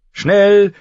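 loud, high, drawn-out cry; urgent ringing shout; trumpet call. A narrator's reading. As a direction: blare the word like a horn. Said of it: "riefen die Trompeten".

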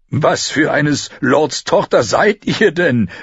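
slow mocking question with a hint of laugh. Apprentice laughingly teases the girl from the ground. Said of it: "fragte er und lachte".

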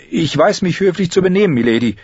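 lightly voiced stubborn boy; a touch of stubborn politeness. Apprentice stubbornly insists on his manners, lightly voiced. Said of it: "antwortete Gendry stur wie immer".

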